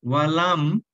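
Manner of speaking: ওয়ালাম said alone, set apart from ইয়াকুন; correct separated reading. Shown as a demonstration. Teacher showing students ওয়ালাম said on its own. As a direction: stop cleanly after ওয়ালাম. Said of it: "ওয়ালামিয়া যদি আমরা একসঙ্গে বলি".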